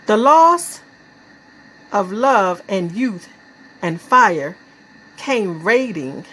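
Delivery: halting, weighted poem reading; deliberate verse with long pauses; poetry recitation. Acted. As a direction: give each image its own phrase.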